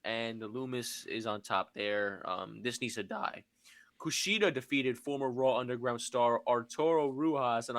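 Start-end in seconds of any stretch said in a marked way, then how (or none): 2.2-3.4 dry muttered whisper; whispered aside. Real, not acted. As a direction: drop to a whisper to dismiss it. Aside after dull match recap.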